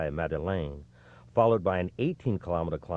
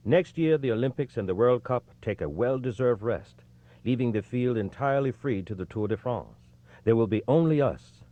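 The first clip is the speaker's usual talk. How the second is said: proud boast; 6 semitones higher than usual. Retold or imitated. Race director boasting to the hall, playfully triumphant. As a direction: announce it like a showman savoring the punchline.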